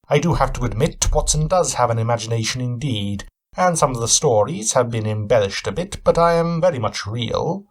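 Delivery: a hint of a keen, probing detective; Sherlock Holmes. Cabin owner sizing up his guest, lightly voiced shrewd questioning.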